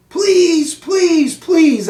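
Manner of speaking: high, eager hamster squeak; squeaky pleading. Acted. Hamster begging the janitor to stay for dinner, high squeaky pleading. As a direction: beg in a tiny squeak. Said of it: "I squeaked".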